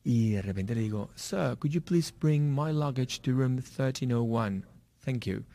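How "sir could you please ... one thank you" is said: slow, careful put-on British accent. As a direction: ask politely in a mock British accent. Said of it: "hablo con mi idioma british". (pedido lento con acento británico)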